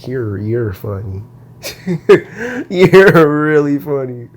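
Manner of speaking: incredulous, laughing scoff; mocking disbelief. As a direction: scoff at the idea, amused. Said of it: "I said".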